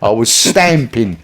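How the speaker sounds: stamping said slowly and deliberately; slowed clarification; slow correction. Retold or imitated. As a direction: spell out stamping carefully. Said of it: "she said".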